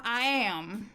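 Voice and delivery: talking while chewing; mouth full. Real, not acted. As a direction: say it through a mouthful. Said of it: "Are you eating moist granola?".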